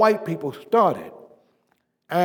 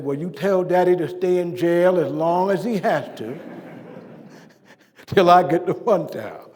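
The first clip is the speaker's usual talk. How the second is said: laughing quote. Retold or imitated. Daughter's reply retold with laugh.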